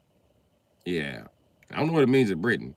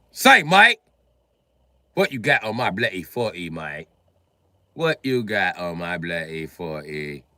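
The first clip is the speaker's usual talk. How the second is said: British Debo; 3 semitones lower, 4 dB louder, slower than usual. Acted. British Debo demanding the forty, mock British accent. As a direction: shake him down in a British accent. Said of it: "imagine a British dude walking around like Debo on Friday".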